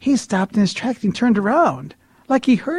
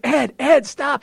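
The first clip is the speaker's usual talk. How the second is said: high, pleading objection; flustered protest; 8 semitones higher, slower than usual. Retold or imitated. Man dragged to the front by his friend, high flustered protest. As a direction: plead to be let go, pitched up.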